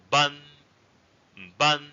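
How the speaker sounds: "ban" held high and level. Shown as a demonstration. Teacher models the word for village, high level tone. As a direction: say "ban" on one steady high pitch. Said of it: "or high level tone".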